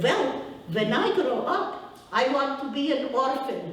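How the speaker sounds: put-on little boy's answer, slowed, laughing through it; boy in Ukrainian accent. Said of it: "I'll say it with my accent".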